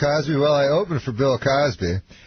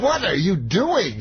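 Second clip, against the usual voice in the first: lightly mimicked interviewer, slow and raised; Barbara Walters; 7 semitones higher, slower than usual. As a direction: draw the question out slowly, higher. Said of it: "So then Barbara Walters goes".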